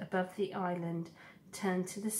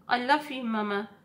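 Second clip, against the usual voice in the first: put-on tender young goose; 4 semitones higher, 5 dB louder than usual. Goose son hugs his mother.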